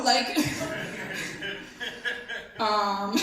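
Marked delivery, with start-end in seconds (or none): 0.4-2.5 quiet chuckle at own joke; soft laugh. Real, not acted. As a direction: let out a low laugh.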